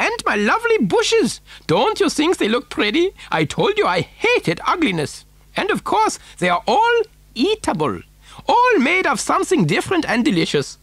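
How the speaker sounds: high, swooping voice with Germanic touch; excitable eccentric factory owner. Acted. Factory owner showing children his waterfall, excitable and high-pitched. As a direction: show it off with zest, pitch leaping high.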